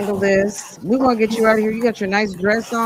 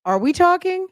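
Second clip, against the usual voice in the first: imitating Big Sis. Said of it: "Big Sis is like".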